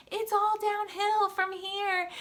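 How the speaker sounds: cheering spectator. Retold or imitated.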